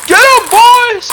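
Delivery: high, slow, bellowing villain taunt; Bombastian's booming call. Acted. Bandit leader gloating at the adventurers, booming and slow. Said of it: "He pops up and goes".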